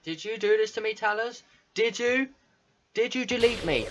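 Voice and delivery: mildly pained Monica. Acted. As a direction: read her cries for help, lightly acted. Reads Monica's distressed lines.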